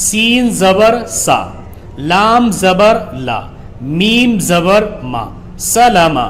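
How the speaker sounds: letter by letter then the joined word; teacher sounding out a word for pupils; slow spelling recitation. Shown as a demonstration. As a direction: chant the parts evenly, then land the word. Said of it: "سب سے پہلے دیکھیے".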